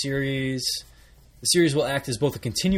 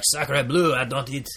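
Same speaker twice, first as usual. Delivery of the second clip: put-on French accent. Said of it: "French Canadians are like".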